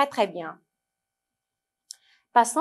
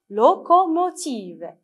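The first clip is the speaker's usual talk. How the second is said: "locomotive" slow and higher, as LO, CO, MO, TIVE; syllable by syllable; 4 semitones higher, 4 dB louder, slower than usual. Shown as a demonstration. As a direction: give each syllable of "locomotive" its own beat. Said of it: "lisez avec moi".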